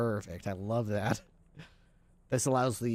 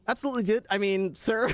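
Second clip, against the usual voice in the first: higher-pitched mock slip, then self-correction; new character slip-up; 6 semitones higher than usual. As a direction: blurt it, then hastily correct yourself in character. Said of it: "Aaron on Air's new character is gonna say".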